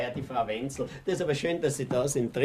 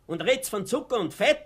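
each question angrier than the last; rising outrage; 9 semitones higher than usual. Acted. Old man rounds on the laughing women, climbing into a shout.

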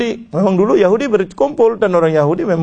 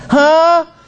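shocked hah; 10 semitones higher, 4 dB louder than usual. Acted. Jewish man shocked by news.

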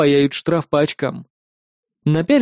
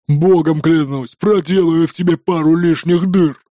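hissing threat. A narrator's reading. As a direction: threaten him through the door. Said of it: "шипел незнакомец".

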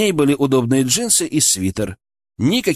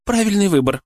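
smirking; 9 semitones higher than usual. A narrator's reading. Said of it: "усмехнулась она".

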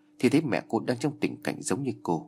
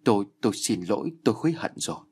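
stammering in terror; faster than usual. Acted. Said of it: "giọng của bà không còn phát ra trơn tru".

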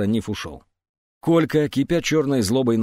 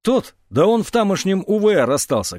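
high-pitched excited outburst; blurted shout; 7 semitones higher, 4 dB louder than usual. A narrator's reading. Яшка lets the secret slip, shouting. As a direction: blurt it out before thinking. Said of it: "крикнул Яшка и осёкся".

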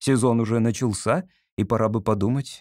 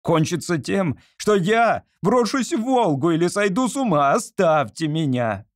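desperate outburst; 6 semitones higher than usual. A narrator's reading. Artist frantically threatening to throw himself in the Volga. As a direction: threaten in despair.

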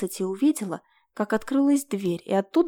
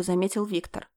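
ordinary delivery, nothing marked

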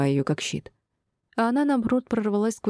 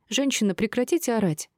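high-pitched reproach; annoyed neighbour's complaint; displeased; 6 semitones higher than usual. A narrator's reading. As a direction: tell her off in a raised pitch. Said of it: "стояла недовольная девушка".

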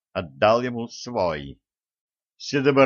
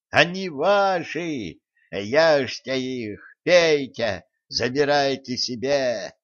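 triumphant shaman; 3 semitones higher, slower than usual. Acted. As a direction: urge the spirits to eat. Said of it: "торжествующе плясал шаман".

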